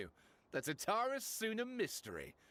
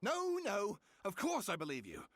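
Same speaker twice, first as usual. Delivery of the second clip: flustered denial; 2 semitones higher than usual. Acted. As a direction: rush to deny it, caught off guard. Hasty denial after being doubted.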